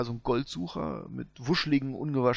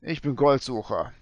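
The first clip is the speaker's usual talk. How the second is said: Colvin Crane; 4 dB louder than usual. Acted.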